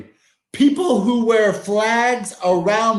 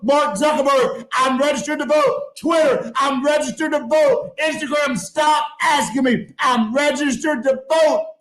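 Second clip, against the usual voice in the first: exasperated rant; 4 semitones higher than usual. Real, not acted. Ranting at nagging platforms.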